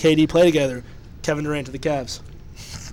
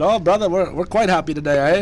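a badly faked Canadian accent, lightly done; mock Canadian, barely shifted from his own voice. Retelling the fans' reply in a bad Canadian accent. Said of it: "the worst Canadian accent I've ever heard".

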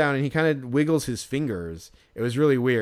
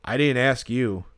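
slow, menacing put-down, imitated; scary put-down; slower than usual. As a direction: drop it slowly like a cold threat. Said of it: "kinda scary the way he said it".

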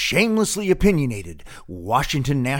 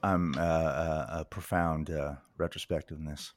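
mock profound musing; 10 semitones lower, 10 dB quieter than usual.

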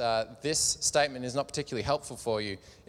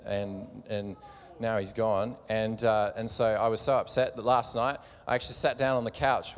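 lower, hangdog voice of a down friend; glum Bob; 3 semitones lower than usual. Acted. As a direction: mope through the bad news, lightly played. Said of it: "Bob says".

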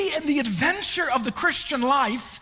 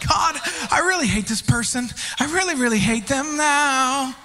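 mock vengeful prayer. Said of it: "'Cause I'm like".

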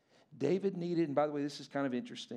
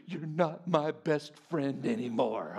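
put-on sulky child; 2 semitones lower, 3 dB louder, slower than usual. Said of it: "and he goes".

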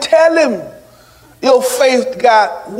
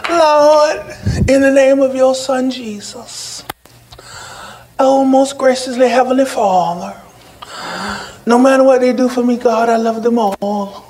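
mock pious prayer. Preacher mimics churchgoers faking it at the altar, mock pious prayer. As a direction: feign devotion as if praying at the altar. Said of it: "and fake 'em on it".

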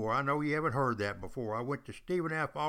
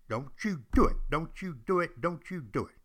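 wag a finger at the listeners; stern warning; 3 semitones higher than usual. Real, not acted. Warning podcast listeners against drinking, stern repeated caution. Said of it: "don't you go drinking".

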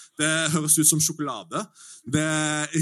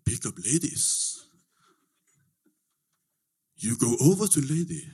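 Mister Chong's answer; 3 semitones higher than usual. Retold or imitated. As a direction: spell out the obvious to an idiot. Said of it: "Og liksom".

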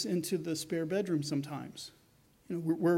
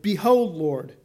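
a ringing, louder declaration of "Behold"; loud proclamation; 7 dB louder, slower than usual. Retold or imitated. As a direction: announce it boldly to the Lord. Zacchaeus proclaims to the Lord.

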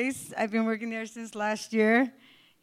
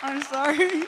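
stage fright; 5 semitones higher, 5 dB louder than usual. Real, not acted. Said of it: "I'm really nervous right now".

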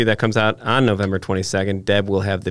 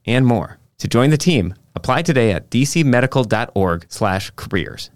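ad read; 2 semitones higher than usual. Acted. Sponsor ad read by host.

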